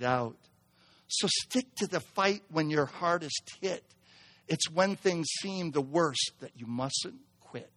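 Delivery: soft, low recital of a poem; poem reading. Acted. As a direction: read the verses gently and steadily. Reads a poem from screen.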